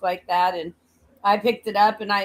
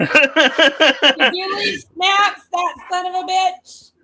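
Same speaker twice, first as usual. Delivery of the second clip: loud, slow mock tirade; mock shouting; 7 semitones higher, 5 dB louder, slower than usual. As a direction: yell it like you're cursing him out. Mock yelling at absent ex.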